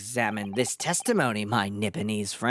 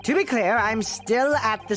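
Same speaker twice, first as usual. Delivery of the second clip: put-on very old man; 7 semitones higher than usual. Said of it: "the old man voice".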